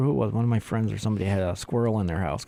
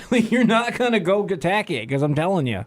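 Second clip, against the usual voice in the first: voicing the dog; 8 semitones higher than usual. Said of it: "and she's like".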